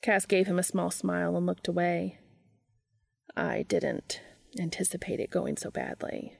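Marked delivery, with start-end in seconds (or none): 3.4-6.4 whispering. Acted. Sheepish quiet confession.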